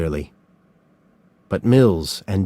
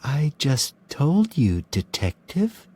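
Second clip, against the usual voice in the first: calm; 6 semitones higher, 4 dB quieter than usual. A narrator's reading. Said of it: "said Doe calmly".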